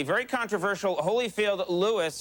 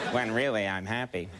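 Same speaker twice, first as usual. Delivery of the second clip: laughing. Real, not acted. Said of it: "I tricked you into thinking".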